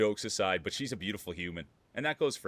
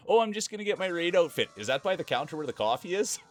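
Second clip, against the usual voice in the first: high airy mock girly voice; mimicking Cheesy; 8 semitones higher, 4 dB louder than usual. Imitating Cheesy's replies on stream, high mocking voice. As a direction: parody her innocent questions, higher. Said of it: "everything she'd say".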